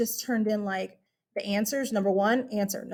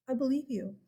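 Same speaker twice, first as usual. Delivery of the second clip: reassuring; 3 semitones higher, 6 dB quieter than usual. Real, not acted. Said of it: "Calm down".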